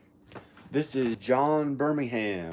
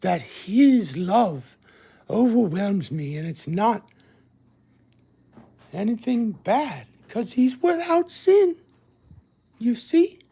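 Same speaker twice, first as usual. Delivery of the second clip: lingering preacher; 8 semitones higher, 4 dB louder than usual. Retold or imitated. Keeps the preacher voice going.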